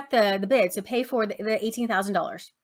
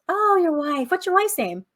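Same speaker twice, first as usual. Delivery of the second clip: higher, playfully eager questions; mock delighted Rachel; 8 semitones higher, 3 dB louder than usual. Rachel charming the bald bidder, higher and eager. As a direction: fake interest to charm the buyer. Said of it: "And she goes".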